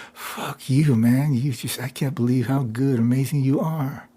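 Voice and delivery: lightly acted awe at a friend; admiring, heartfelt. Praising a friend's amazing feat, admiring and heartfelt. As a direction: swear at them with affection and amazement. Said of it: "how we might talk to somebody".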